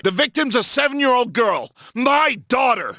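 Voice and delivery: desperate shout. Acted. Father shouting at officer.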